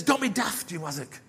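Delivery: playful chiding. Acted. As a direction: tease him lightly for being silly. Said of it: "cuffed him round the neck a bit".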